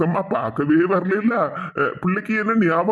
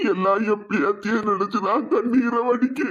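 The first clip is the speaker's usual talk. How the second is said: acted weepy grandfather; choked-up, crying delivery; tearful. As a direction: speak through tears of longing for a grandchild. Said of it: "ஏன் இப்படி அழுவுறீங்க?".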